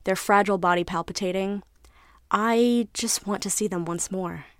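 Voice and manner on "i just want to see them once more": a touch of tearful trembling; trembling longing. Acted. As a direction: hold back tears and say it slowly.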